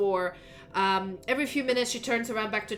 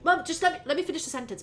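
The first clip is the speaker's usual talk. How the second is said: exasperated son; 7 semitones higher, much faster than usual. Acted. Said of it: "She goes".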